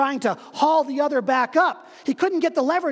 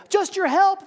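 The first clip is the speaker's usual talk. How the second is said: high, raised answer; calling up; 9 semitones higher, 4 dB louder than usual. Acted. Dangling stranger calls up his answer. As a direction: call up simply.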